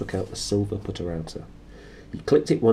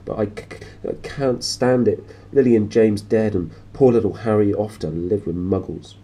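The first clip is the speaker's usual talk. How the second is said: sobbed; 2 semitones higher, 5 dB louder than usual. Acted. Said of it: "sobbed Hagrid".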